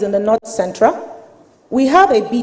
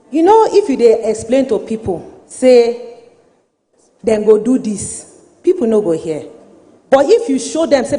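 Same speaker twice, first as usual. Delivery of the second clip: Nigerian Pidgin. Real, not acted. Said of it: "I'm going to speak in Pidgin".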